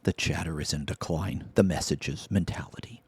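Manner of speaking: hushed, mock-tragic murmur; mock whisper. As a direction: whisper it like a fake lament. Mock-mourning the chat's decline.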